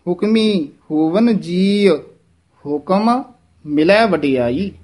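slow recital, ਜੀ drawn to "jee-a"; measured line with stretched ਜੀ. Shown as a demonstration. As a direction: pause after ਹੁਕਮੀ and ਹੁਕਮ, long ਜੀ. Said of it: "ਇਹਦਾ ਉਚਾਰਨ ਹੈ ਜੀ".

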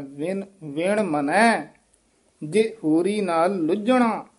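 ਮਨੈ, ਮੰਨੈ ਨਹੀਂ; correct ਮਨੈ. Shown as a demonstration. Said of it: "ਇਹ ਮੰਨੈ ਨਹੀਂ ਕਹਿ ਦੇਣਾ".

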